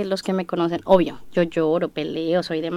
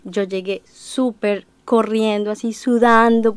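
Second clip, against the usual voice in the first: ordinary delivery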